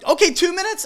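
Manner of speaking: high, squeaky bargaining voice; mock photographer. Mimics photographer again.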